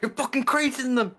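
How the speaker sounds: high, loud royal outrage; roaring tyrant king. Pretend. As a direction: bellow like a furious king. Yelling at bug in game.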